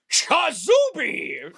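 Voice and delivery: drawn-out high spell cry with a laugh in it; magic word. Acted. Wizard casting over the teapots, a high drawn-out cry. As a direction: belt the magic word high and slow, cracking up.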